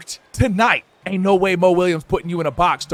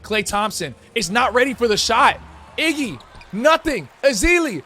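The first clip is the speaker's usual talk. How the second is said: hyped announcer calling the game; play-by-play commentary. Pretend. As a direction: narrate the action like a broadcaster.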